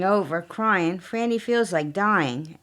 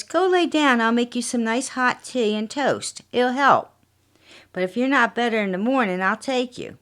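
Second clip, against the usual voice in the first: higher, honeyed husband calming his wife; lightly voiced sly husband; falsely soothing husband; 4 semitones higher than usual. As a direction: soothe her with false kindness. Jack soothes his poisoner victim.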